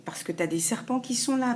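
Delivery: whispered warning about snakes. Real, not acted. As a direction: hush it like a secret warning. Warning about jealous people.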